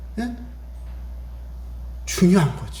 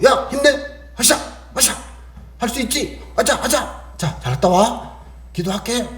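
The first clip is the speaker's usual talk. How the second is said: mother cheering; 4 semitones higher than usual. Acted. Mother cheering her child.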